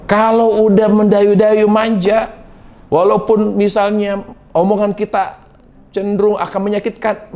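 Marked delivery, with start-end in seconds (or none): 0.1-2.3 higher, louder, slow and lilting; mock lilting sweetness. Shown as a demonstration. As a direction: sing it out sweetly like a pampered wife.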